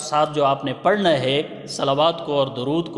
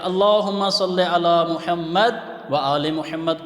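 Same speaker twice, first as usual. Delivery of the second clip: slow recitation; slower than usual. Shown as a demonstration. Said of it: "یہ سوال ہوتا ہے".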